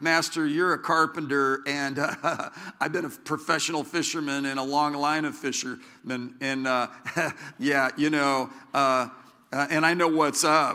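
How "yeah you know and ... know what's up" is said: ordinary talk, nothing marked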